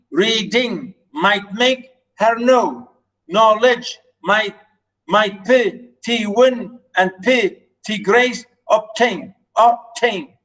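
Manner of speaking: chain the lines, stressing each beat; scanning the lines. Shown as a demonstration. Teacher scanning the next lines of the sonnet. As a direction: read it as iambic steps. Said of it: "here I did the first three lines".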